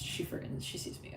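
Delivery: hushed unvoiced whisper. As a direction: whisper it like a secret. Whispered aside.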